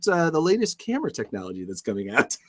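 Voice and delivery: high shouted storm report; yelling over hurricane winds. Pretend. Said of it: "I'm in the eye of the storm reporting".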